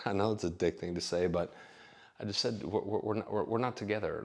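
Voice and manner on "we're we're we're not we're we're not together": awkward halting "we're, we're, we're"; stammering hedge. Retold or imitated. Telling the roommate they're not a couple, stammering. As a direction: trip over the words to soften it. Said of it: "Like, I said it like that".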